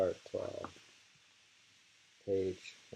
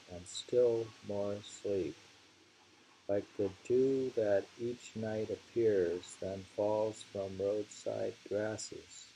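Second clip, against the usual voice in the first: slow, hushed reading that fades at the end; slow poem recitation. Acted. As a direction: ease the verse out and let it settle. Reads poem nine sixteen.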